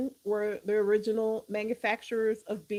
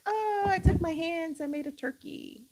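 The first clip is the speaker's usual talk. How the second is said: put-on excited kid; 5 semitones higher than usual. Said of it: "As a kid, you're like".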